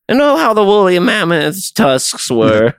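slow, lofty documentary narrator voice; nature documentary. Retold or imitated. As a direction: narrate it like an old nature film.

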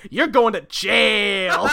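slow, drawn-out accusation; accusing Bob. Acted. Bob pointing at the hero, slow accusation. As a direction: stretch it out as a verdict. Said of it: "Bob points at Batman and goes".

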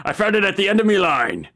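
pirate fisherman voice. Acted. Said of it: "a cacophonous shanty yell".

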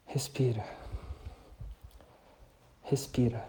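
calm yourself down gently; calming self-talk. Shown as a demonstration. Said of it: "criar uma outra narrativa".

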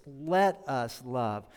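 slow, gentle, inviting; gentle invitation. Shown as a demonstration. Pastor shows John's gentle way, slow and gentle. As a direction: let it be an invitation, slowly. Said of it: "such a gentle way of saying it".

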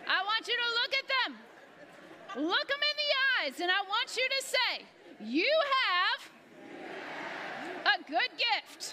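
high, loud hammed-up preacher cadence; full-force mock revival preacher; preaching voice. Shown as a demonstration. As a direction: preach it out with a stretched good gift. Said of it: "find your best preaching voice right now".

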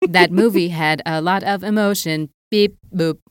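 stiff robotic monotone. Retold or imitated. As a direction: talk like a confused robot. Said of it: "Oh, good callback".

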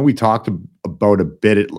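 stumbling over the words with false starts; real fumble, restarting the phrase; tongue-tied. Real, not acted. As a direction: trip over your tongue mid-question. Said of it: "I'm tripping over my tongue".

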